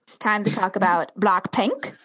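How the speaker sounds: tentative put-on British accent; lightly faked British vowels; attempted British accent. Co-host trying a band's name in British, half-hearted British accent. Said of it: "Are you doing Blackpink in British?".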